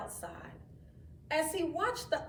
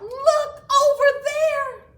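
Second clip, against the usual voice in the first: loud, higher, slow call; 15 dB louder than usual. Acted. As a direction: call across the park to everyone. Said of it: "Jenny called out".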